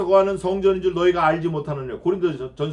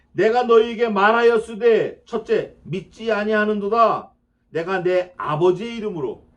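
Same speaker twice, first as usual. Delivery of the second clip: slow solemn proclamation; 3 semitones higher, 6 dB louder than usual. Acted. Quoting Jesus from scripture.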